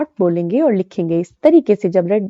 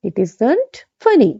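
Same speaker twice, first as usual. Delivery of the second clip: slow, deliberate contracted form; slow model sentence; 3 semitones higher, much slower than usual. Shown as a demonstration. Teacher modelling the contraction slowly, twice. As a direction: say it slowly twice for them to copy. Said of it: "तो हम कहेंगे".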